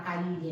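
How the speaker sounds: "calle" as KA-lyeh; "calle" with a true Castilian LL. Shown as a demonstration. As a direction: say "calle" with a palatal L. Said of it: "decirle a un argentino que haga".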